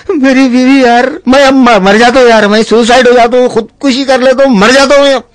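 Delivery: whiny mock crying; mock sobbing. Husband crying to his friend over his wife, mock sobbing. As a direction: blubber like a heartbroken groom.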